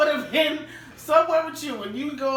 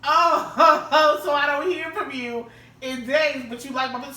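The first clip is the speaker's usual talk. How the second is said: louder, slower sarcastic jab, laughing; sarcastic callout; 3 semitones higher, 5 dB louder, slower than usual. Pretend. Woman calling out a date who only liked her picture, sarcastic. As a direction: needle him for ignoring texts.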